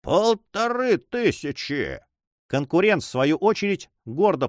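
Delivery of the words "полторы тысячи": slow, higher cry, voice cracking; a jealous rival crying out his bid, voice breaking; voice breaking with emotion. A narrator's reading. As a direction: force the bid out through shaking emotion. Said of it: "закричал прерывавшимся от волнения голосом".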